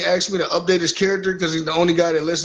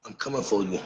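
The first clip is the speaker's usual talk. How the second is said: menacing; 9 semitones lower, 9 dB quieter than usual. Pretend. Low menacing threat in promo.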